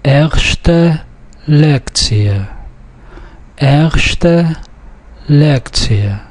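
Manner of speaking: Erste and Lektie stressed on the next-to-last syllable; Yiddish pronunciation model. Shown as a demonstration. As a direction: read Erste Lektie word by word, light L in Lektie. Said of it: "stress is on the next to last syllable".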